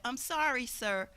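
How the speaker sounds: soft, steady and polite, trailing very quiet; gently but firmly turn him down; calm. Retold or imitated. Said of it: "I very calmly said".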